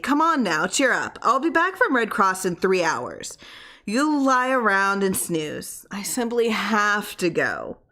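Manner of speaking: cheery coaxing, slowing at the end; jolly him along; lightly voiced wife. Wife cheers up her sick husband, light and coaxing.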